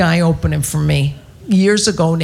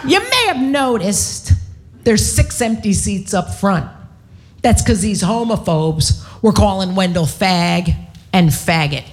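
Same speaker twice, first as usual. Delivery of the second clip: self-righteous. Retold or imitated. Comic back on stage addressing the audience, mock self-righteous. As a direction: proclaim it grandly, pausing between phrases. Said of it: "I'm all self-righteous".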